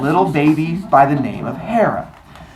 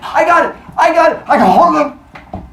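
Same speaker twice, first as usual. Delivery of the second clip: high louder fake panic; mock frantic shout; 12 semitones higher, 6 dB louder than usual. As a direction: shout as if catching the baby. Kronos faking catch.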